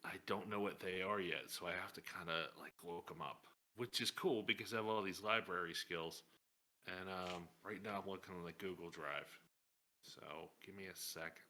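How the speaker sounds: low, hushed murmur; soft confiding whisper. Acted. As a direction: keep it down so others can't overhear. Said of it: "I whisper softly in Shell's ear".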